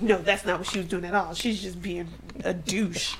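quick quote sinking into a whisper; fading to a whisper. Retold or imitated. Friend recapping a show, whispering a character's snipe. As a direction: let it drop to a whisper.

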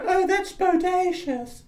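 high, drawn-out ghostly delight; spooky falsetto with dated slang; eighties ghost. Pretend. Ghost from the eighties reacting to news, high wail. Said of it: "Is that what they said in the eighties?".

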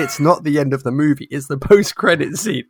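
acted-out exasperated correcting; insistent correction. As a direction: imitate a child arguing back emphatically. Acted argument, daughter insists.

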